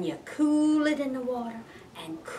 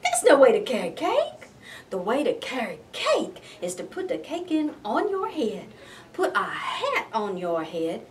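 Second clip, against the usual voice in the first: mama scolding. Acted. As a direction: scold him like a fed-up mama. Mama scolding her son.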